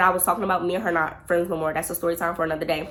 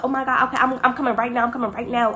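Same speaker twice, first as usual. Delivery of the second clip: higher, put-on panic; feigned urgency; 5 semitones higher, faster than usual. Her faking an exit to escape the date, feigned urgency. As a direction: pretend to rush to an emergency. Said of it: "all of this is a lie".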